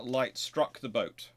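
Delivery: usual speaking voice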